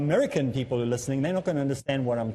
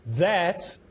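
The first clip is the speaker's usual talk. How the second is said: "That" stressed hard and held, then a pause; stress on first word; 3 semitones higher than usual. Shown as a demonstration. Speaker showing predictable emphasis on first words, heavy opening stress. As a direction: lean heavily on the opening "That". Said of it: "Some put the emphasis on the first word".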